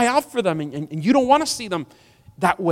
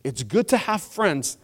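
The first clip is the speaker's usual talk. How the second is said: slower, deliberate restatement; emphatic repeat; slower than usual. Real, not acted. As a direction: say it slowly so it sinks in. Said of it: "I'm gonna say it again".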